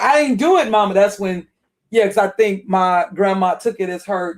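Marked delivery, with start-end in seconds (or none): 0.0-0.9 plain. Retold or imitated. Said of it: "So when she said".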